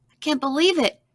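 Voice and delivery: put-on high-pitched, delighted girl's squeal; excited squeal. A narrator's reading. Sarah on getting a book about herself, excited squeal. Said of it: "she squealed".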